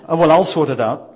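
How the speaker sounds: brightly taking charge, just lightly voiced; helpful organiser. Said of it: "she's probably like Lynn".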